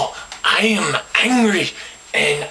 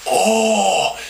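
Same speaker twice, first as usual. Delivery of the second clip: indignant; 2 semitones higher than usual. Retold or imitated. Indignant retort after the gesture.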